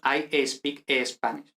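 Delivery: slow Spanish-accented "I espeak Espanish"; Spanish-accented English. Shown as a demonstration. Teacher imitating Spaniards speaking English, Spanish accent with an added e. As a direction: put a Spanish e before "speak" and "Spanish". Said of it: "Y metemos esa E".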